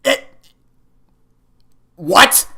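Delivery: high, loud come again; shocked disbelief. Real, not acted. Player to the game, high and stunned. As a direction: blurt it out stunned.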